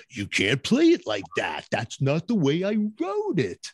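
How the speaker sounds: a hint of Dee Dee complaining; Dee Dee's way of talking. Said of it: "That's how he would talk".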